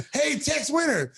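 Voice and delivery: high, slow heckling call; heckler yell. Retold or imitated. Heckler mocking the coach, mild mock yell. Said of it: "the guy would yell".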